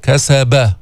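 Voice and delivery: every letter of كسب kept thin, none heavy; استفال. Shown as a demonstration. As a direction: say كسب light, with no emphatic colouring. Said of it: "استفال ما في شيء مفخم هون". (ترقيق حروف كسب كلها)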